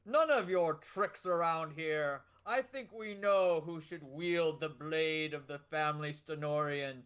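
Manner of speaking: a buff minstrel, lightly voiced, swaggering; bold minstrel hero. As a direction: claim the blade proudly. Player voices Warrant Truenote.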